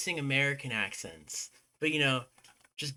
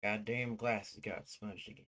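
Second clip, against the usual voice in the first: a hammed-up, silly American accent, lightly done; a low-key, jokey American accent held through idle stream chat; put-on American accent; 3 semitones lower, 3 dB quieter than usual. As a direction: goof around in a mock American accent. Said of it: "still putting on this damn accent".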